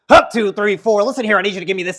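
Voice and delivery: loud barked marching count; drill sergeant. Acted. Speaker mocking a sergeant drilling recruits, barked. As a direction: bark orders like a drill sergeant. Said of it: "scream like a drill sergeant".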